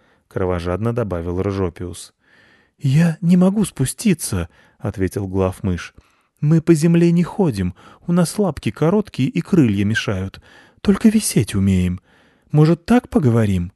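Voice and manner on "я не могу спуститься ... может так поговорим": high squeaky bat leader; pleading little bat, high and squeaky; high-voiced bat pleading from the rafters. A narrator's reading. Head bat voice.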